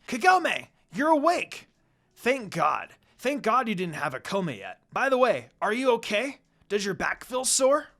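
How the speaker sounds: excited cry of relief at her waking; happy exclaim. A narrator's reading. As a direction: burst out with relief and joy. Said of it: "began to exclaim happily".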